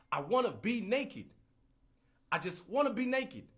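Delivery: high, loud, pleading; longing whine. Retold or imitated. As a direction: beg to be free of clothes. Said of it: "I'm like".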